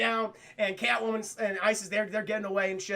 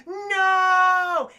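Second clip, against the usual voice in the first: alarmed cry; 9 semitones higher, 10 dB louder than usual. Acted. Cat about to be hit.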